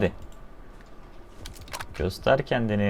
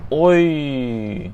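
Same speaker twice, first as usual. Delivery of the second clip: sudden loud pained yelp; startled yelp; 5 semitones higher, 7 dB louder than usual. Real, not acted. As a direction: yelp as the bullet hits. Shot, saved by the pan.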